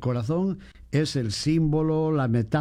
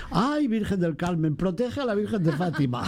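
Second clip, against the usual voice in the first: mock pious lady; 4 semitones higher than usual. Priest imitating a frightened lady at the procession, mock plea. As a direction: plead like a startled old lady. Woman cries out at stumble.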